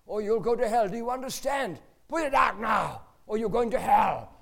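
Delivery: put-on high, loud child's shriek, slowing on hell; little son yelling at a smoking stranger. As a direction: scold the smoker like a furious little boy. Retelling son's shrieking warning.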